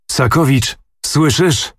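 a lightly voiced menacing prince demanding; terrible voice. A narrator's reading. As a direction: voice of a furious prince. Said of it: "ozwał się strasznym głosem".

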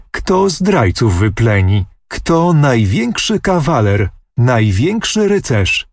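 put-on triumphant girl crowing over her hero; mildly ecstatic boasting; excited exclaiming. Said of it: "i wołać".

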